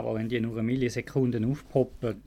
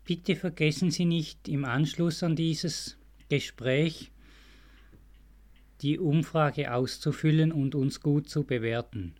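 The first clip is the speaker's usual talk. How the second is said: customer service voice. Pretend. Mock hold-line phone announcement.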